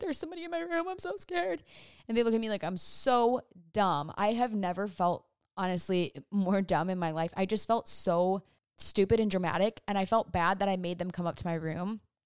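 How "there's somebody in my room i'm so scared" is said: high-pitched hysterical crying. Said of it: "I am hysterically crying".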